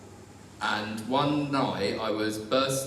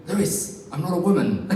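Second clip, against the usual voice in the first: higher, pleading protest; mock indignant protest, a bit louder; 6 semitones higher, 4 dB louder than usual. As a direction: push him off with words. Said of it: "I kept saying to him".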